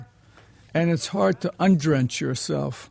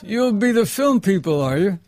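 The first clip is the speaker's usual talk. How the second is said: higher-pitched Irish cab driver, lightly imitated; half-attempted Irish driver's voice; attempted Irish accent; 4 semitones higher, 4 dB louder than usual. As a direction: try an Irish cabbie's lilt. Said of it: "I can't do the accent".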